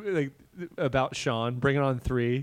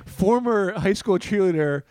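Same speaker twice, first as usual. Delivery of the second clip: mock headline; 2 semitones higher, slower than usual.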